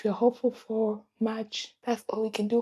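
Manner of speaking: choked-up admission of hopelessness; tearful. Real, not acted. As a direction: voice catching with real tears. Admitting a rough month.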